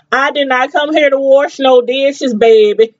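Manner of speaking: mock-upset Southern New Orleans mama; country New Orleans accent. Imitating the mom refusing to wash dishes, country New Orleans accent. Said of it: "she has such a country Southern New Orleans".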